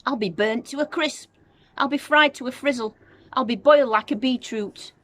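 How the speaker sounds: put-on high, loud panicked old-woman wail; yelling. A narrator's reading. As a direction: yell it out while on fire. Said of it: "she yelled".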